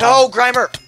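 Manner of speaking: high, loud anguished cry; overacted death scene. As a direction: wail over a fallen friend. Teammate killed in game.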